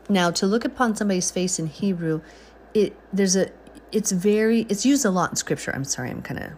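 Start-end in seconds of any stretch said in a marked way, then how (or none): 2.7-5.7 stumbling over words; losing the thread mid-sentence; fumbling for words. Real, not acted. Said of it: "rambling tonight a little bit over my words".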